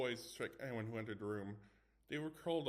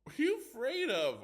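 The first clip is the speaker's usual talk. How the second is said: high, loud mocking laugh-line; 10 dB louder than usual. A narrator's reading. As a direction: taunt through laughter. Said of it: "Arnold laughed".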